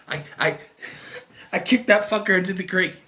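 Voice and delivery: imitating a laughing breakdown; Mike. Breaking down over the map, laughing confession. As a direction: stammer through laughter, then burst out high. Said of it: "starts laughing. He's like".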